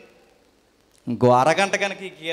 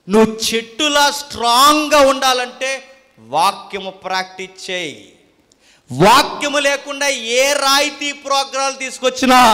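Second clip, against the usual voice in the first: raised, emphatic pulpit voice; preaching exhortation; 7 semitones higher, 11 dB louder than usual. Real, not acted. Preacher urging congregation to practise the word, forceful exhortation. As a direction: exhort them firmly.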